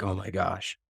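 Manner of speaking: as if hanging your head, softly; mildly imitated shame. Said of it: "me hanging my head low in response".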